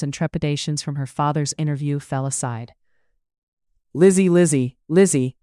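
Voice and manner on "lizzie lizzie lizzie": bright, louder calling of her name; excitedly calling out Lizzie; jubilant greeting. A narrator's reading. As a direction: greet your sister with delight. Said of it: "greeted her sister with jubilation".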